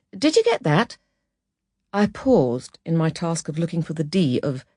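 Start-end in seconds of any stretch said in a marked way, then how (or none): 0.1-1.0 gentle, higher-pitched kindly query; kindly asking. Acted. Boss to struggling typist after a sentence, kindly. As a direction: check on them kindly, pitched up. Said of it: "asked kindly".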